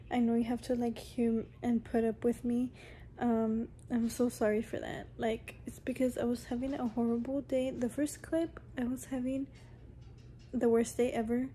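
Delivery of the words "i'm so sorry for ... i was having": soft whispered apology. Real, not acted. Vlogger apologising to viewers, whispering. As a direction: breathe the apology out quietly.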